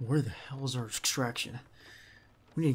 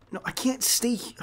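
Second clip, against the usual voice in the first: hushed, breathy refusal, cut short; tense whisper; 11 semitones higher, 5 dB louder than usual. Acted. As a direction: whisper it urgently so nobody hears. Refusing the partner's plea to stay.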